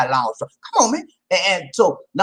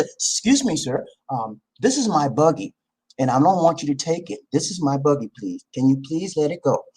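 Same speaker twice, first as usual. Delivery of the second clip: calm, polite, lowered voice asking nicely; polite assertive; 5 semitones lower than usual. Shown as a demonstration. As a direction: ask firmly but politely, no anger. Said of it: "That's being assertive".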